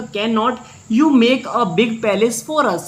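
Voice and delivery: reads each word slowly, spaced out; slow reading aloud. Shown as a demonstration. Teacher dictating the English line slowly for students. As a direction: spell the sentence out slowly for the class.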